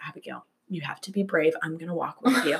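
soft, reassuring coach voice; gentle coaching. Retold or imitated. Kid coaches scared sister past the bathroom, softly. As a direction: talk her through it gently. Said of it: "doing exposure therapy".

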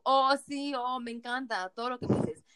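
a hint of a bored wife faking pleasure; bored wife moaning. She imitates her younger self typing like a bored wife, mock moaning. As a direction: fake passion with no real feeling. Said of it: "orgasmo de esposa aburrida".

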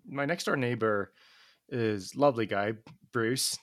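put-on a light Australian accent on the name Bruce. Naming the neighbour with a slight Australian accent. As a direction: say Bruce like an Aussie, just a touch. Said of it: "Don't know why I put Australian accent on".

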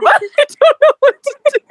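high, laughing as she speaks; laughing retelling; laughing through words. Real, not acted. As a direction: giggle through it. Laughing while quoting herself.

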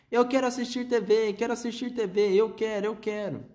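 menino fazendo manha bem agudo; birra de criança. A narrator's reading. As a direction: esperneie pedindo TV. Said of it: "começou a ter um ataque de birra". (criança minúscula fazendo birra com a mãe)

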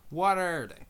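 gruff pirate growl on a question. Real, not acted. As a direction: bark it out like a pirate captain. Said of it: "I said it like a pirate".

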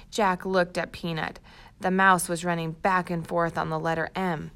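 put-on storybook read-aloud for young kids; reading to children. Teacher reads the chapter aloud to first graders, storybook voice. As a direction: tell the story brightly to a class.

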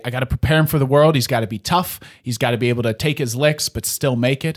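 fast, brisk no-nonsense father; dad explaining why his son must be tough, fast and firm. Retold or imitated. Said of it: "dad will say".

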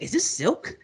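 quoting a pirate through giggles; a laugh breaking into the question; laughing quote. Retold or imitated. Friend retelling a pirate scene, laughing.

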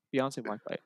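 imitating an unfazed hostess; very casual. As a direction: toss it off like small talk. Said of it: "Like, very casually".

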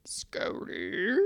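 whispering. Real, not acted. Whispering to the dog.

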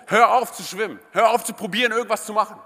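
loud, insistent command; coach calling out. Retold or imitated. Coach shouts at struggling swimmer, loud order. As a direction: call it out across the water. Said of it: "Und der Coach ruft".

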